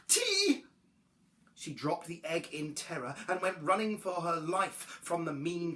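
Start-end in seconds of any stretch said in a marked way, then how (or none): 0.1-0.7 high little creature voice; pleased with yourself, pitched up high; lightly voiced self-congratulation; murmured to herself. A narrator's reading.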